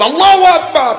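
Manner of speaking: high, loud cry of praise; exclaimed praise. Real, not acted. Preacher capping his climax for the crowd, high shouted praise.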